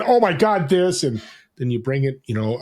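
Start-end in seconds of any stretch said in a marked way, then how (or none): 0.0-1.0 lifted up. Shown as a demonstration. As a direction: jump higher and louder on "Oh my God, this". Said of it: "you bring it down here, and then".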